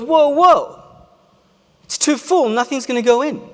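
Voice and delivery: high, loud startled whoa; alarmed. Retold or imitated. Psychiatrist watching his cup overflow, alarmed high cry. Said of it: "The psychiatrist goes".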